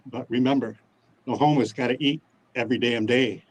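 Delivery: reciting a homemade rhyme with pride; proud clunky rhyming verse. Acted. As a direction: spit the rhyme like a proud amateur poet. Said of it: "I wrote a poem for my pitch today, and it goes like this".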